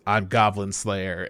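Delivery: low, soft, slow self-introduction; stoic hero. Retold or imitated. Hero answers her on the hillside, stoic and quiet. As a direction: understate it in a deep, solemn hero voice. Hero's line, then title announced.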